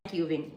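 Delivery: "Kaikki hyvin" softly falling, no question lift; no intonation. Shown as a demonstration. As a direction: keep "Kaikki hyvin" low, ending downward. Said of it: "In Finland, we don't have intonation".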